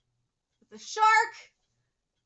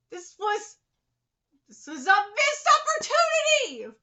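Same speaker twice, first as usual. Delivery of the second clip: indignant rant; 6 semitones higher, 9 dB louder than usual. Real, not acted. Ranting at the chapter.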